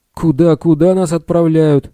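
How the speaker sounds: high loud breathless panic; gasping alarm. A narrator's reading. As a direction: choke out the words in shock. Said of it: "задохнулся Билл".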